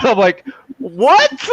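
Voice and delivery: normal talking voice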